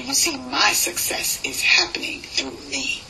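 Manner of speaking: rhythmic, steady poem recital; spoken word poem. Acted. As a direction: ride the rhythm of the verse.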